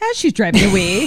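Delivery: squeaky little leprechaun voice. Retold or imitated. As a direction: say it like a tiny leprechaun. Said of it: "It sounded like a little, a little leprechaun".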